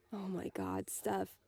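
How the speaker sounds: relieved whisper. Acted. Relieved exhale after tension.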